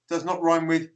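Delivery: lightly mimicked American objection; a touch of imitation American accent. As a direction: contradict in mildly mock American. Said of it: "they're being American".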